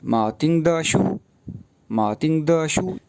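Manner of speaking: मातिंग द शू read slowly and clearly; slow example reading. Shown as a demonstration. Teacher slowly reading the example to the class. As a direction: read the phrase slowly for students to repeat. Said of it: "हमने नाम पढ़ा था".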